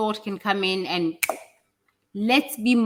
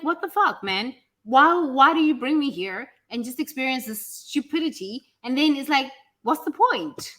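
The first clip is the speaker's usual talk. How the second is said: retold anger at God; 3 semitones higher than usual. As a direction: rant at God, reliving the frustration. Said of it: "I was kinda hella angry at God".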